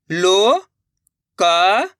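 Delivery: लोकल stretched very slowly, syllable by syllable; drawn-out syllables. Shown as a demonstration. Teacher sounding out लोकल for pupils, very slowly. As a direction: pull लोकल apart sound by sound. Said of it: "अब आगे देखिए".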